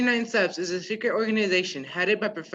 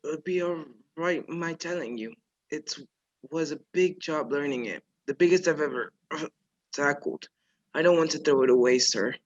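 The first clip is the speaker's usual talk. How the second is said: weak dying voice. Acted. Dying man speaks haltingly.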